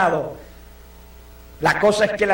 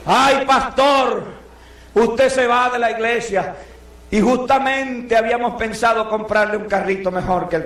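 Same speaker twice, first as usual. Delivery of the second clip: mock pleading member; 2 semitones higher than usual. A church member to the leaving pastor, hammed-up regret. Congregation voiced to departing pastor.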